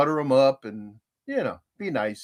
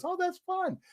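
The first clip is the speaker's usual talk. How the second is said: quoting Grammy; 13 semitones higher, 8 dB quieter than usual. Retold or imitated. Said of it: "She goes".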